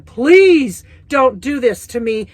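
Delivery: begging. Retold or imitated. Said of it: "I beg this woman".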